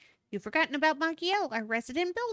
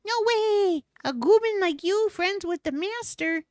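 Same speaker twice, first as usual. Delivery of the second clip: louder, higher shocked outburst; loud disbelief; 3 semitones higher, 5 dB louder than usual. Acted. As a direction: blurt it out in shock. Disbelief at friendship.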